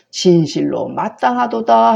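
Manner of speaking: mock-grand approval; sarcastic. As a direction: ironic classical pronouncement. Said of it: "빈정대는 거죠".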